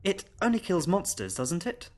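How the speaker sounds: put-on high child voice, softening at the end; sleepy little girl. Child carried upstairs checks with governess, sleepy. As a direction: ask drowsily as a small child. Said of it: "the child said sleepily".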